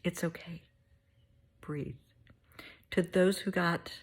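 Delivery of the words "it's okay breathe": a soft whispered breathe. Real, not acted. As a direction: whisper it to calm them. Calming a grieving listener.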